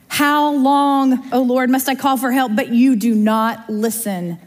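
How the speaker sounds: crying out for help; screaming plea. Shown as a demonstration. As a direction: push the plea out, then let it slow. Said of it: "No, he's screaming".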